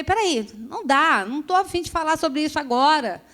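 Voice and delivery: ordinary delivery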